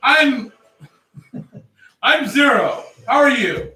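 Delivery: overly friendly greeting; talking to weapon. Pretend. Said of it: "I hold this guy up".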